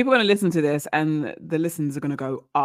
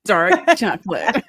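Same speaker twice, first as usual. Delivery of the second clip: laughing; 3 semitones higher, 6 dB louder, slower than usual. Real, not acted. Repeating while laughing.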